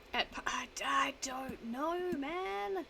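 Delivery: drawn-out, rising high; slow, high-pitched exasperation; flustered whine. Real, not acted. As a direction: stretch it out helplessly, climbing in pitch. Flustered by the quiz statement.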